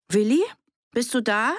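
high, questioning call. A narrator's reading. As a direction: call through the door for someone. Calling to Willi behind the door.

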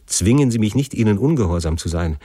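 pleading, pitch rising in waves; understated, urgent desperation; desperate refusal. Acted. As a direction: refuse as a son driven to despair. Desperate son refuses father's command.

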